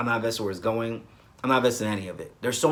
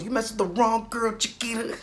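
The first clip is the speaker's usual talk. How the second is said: high, sassy soap-diva taunt; Blair's sassy threat; 10 semitones higher than usual. Retold or imitated. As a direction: toss it at her like a soap villain. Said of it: "she goes".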